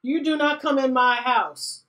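loud, firm threat to an intruder; angry warning. Pretend. Nathan warning the vampire off, loud and stern. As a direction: lay down the law, stern and loud. Voicing Nathan angrily defending home.

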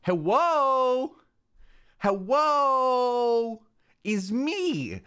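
mock streamer squeak. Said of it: "my new streamer voice".

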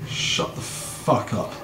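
hissed low whisper. Real, not acted. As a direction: keep it under your breath. Hushes someone while hiding.

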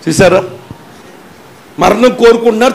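usual speaking voice

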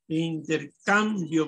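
Intercambio slowly, with weight on CAM; in-ter-CAM-bio, slow, third syllable strongest; stress on CAM. Shown as a demonstration. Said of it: "En cam".

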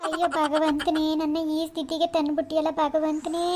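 abandoned wife lamenting to God, slow and tearful; wailing lament. Acted. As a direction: mourn slowly to the heavens. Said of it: "ಅಳ್ಬೇಡ".

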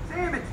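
Sandwiches said as sammiches; Pittsburgh accent. Shown as a demonstration. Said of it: "You want jumbo or chip ham".

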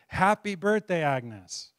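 high, loud "Happy birthday" called out; party guests shouting happy birthday at Agnes; shouted surprise greeting. Retold or imitated. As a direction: yell it like a surprise party crowd.

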